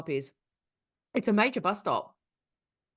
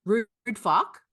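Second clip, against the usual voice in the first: slow confrontation; 4 dB louder, much slower than usual. Pretend.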